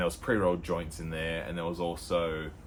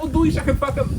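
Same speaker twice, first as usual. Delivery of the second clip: very high squeaky mock Dutch, much higher; 10 dB louder than usual. Parodying Dutch passers-by again, in a very high mock Dutch accent. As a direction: shriek the fake Dutch even higher.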